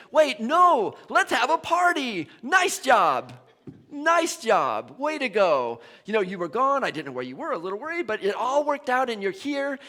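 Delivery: excited father calling for a party; joyful welcome. Retold or imitated. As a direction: throw open your arms, celebrate.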